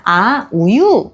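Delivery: 천천히 늘여서 아이에게 우유를 묻는 엄마; 말 한번 건네기 시범. Shown as a demonstration. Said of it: "이렇게 말을 한번 하시고". (천천히 늘여 말하는 엄마 말투)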